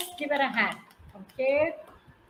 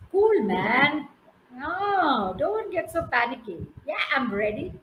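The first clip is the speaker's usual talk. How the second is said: laid-back squirrel. Acted. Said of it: "And so the squirrel".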